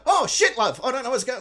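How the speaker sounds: high, loud hammed-up Aussie; mock Australian accent. Retelling the movie's actress to co-hosts, mock Australian accent. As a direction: play up a broad Australian accent, voice jumping up. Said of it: "slipping in and out of their Australian accents".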